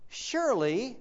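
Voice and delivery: serpent voice. Acted. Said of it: "Frank Peretti does this great impression".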